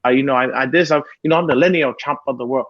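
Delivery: lightly put-on British accent; British fighter's accent, stop-start and matter-of-fact; Tyson Fury. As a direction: imitate a British boxer, accent and all. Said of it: "you just start talking like Tyson Fury".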